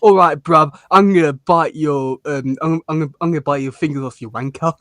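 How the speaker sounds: put-on Essex hard man accent. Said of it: "Just imagine Leatherhead saying that".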